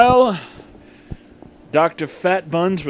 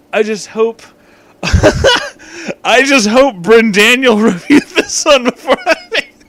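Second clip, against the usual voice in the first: laughing fit; 10 semitones higher, 8 dB louder than usual. Real, not acted. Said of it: "I'm sorry".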